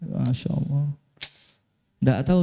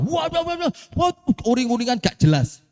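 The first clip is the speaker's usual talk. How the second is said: mock exasperation; 5 semitones higher than usual. Mocking the wife's tantrum.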